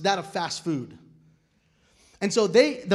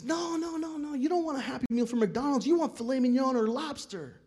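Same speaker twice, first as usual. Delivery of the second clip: mock disbelief; 7 semitones higher than usual. Everyone insists kid choose lobster.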